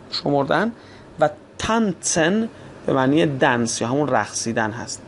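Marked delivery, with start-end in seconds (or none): 1.6-2.5 تانتسن with "ts" in the middle. Shown as a demonstration. Teacher giving an example, تانتسن with t run into s. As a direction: say تانتسن as "tan-tsen". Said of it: "ت و س رو سعی کنید به دنبال هم سریع".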